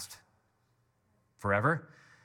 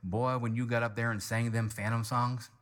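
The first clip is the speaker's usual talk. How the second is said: lightly voiced Kentucky dad; Kentucky accent; 4 semitones lower than usual. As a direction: imitate a proud father's Kentucky accent, low-key. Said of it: "this is why I'm using the accent".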